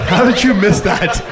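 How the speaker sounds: high-pitched exasperated parent, imitated; mock scolding at a missed lesson; mock parental disbelief. Parents scold him in retold scene.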